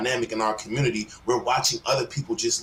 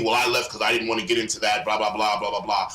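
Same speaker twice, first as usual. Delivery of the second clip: mocking excuse; 4 semitones lower, faster than usual. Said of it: "And he'll say".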